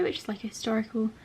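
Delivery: breathless, feeling ill; airy, short-winded delivery; out of breath. Real, not acted. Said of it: "Sorry, I'm out of breath".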